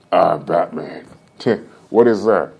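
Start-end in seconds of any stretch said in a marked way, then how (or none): 0.1-1.1 low, gruff mock Batman; a lightly done lower Batman growl. Streamer doing a requested Batman voice for chat, low. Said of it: "Do a Batman voice".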